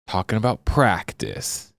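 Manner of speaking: slow, drawn-out emphasis on "practice"; incredulous quote, lightly acted, trailing down; Ted Lasso quote. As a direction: stretch it out as a mock complaint. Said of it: "In Ted Lasso, when he says".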